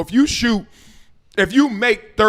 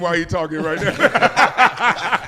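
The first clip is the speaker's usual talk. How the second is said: laughing. Real, not acted. Teasing a chewing co-host.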